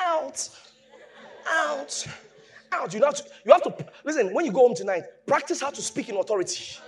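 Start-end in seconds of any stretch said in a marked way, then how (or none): 0.1-2.9 soft, limp "Out"; weak command. Retold or imitated. Preacher mocking a weak command to a demon. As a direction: say "Out" with no conviction. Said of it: "don't say".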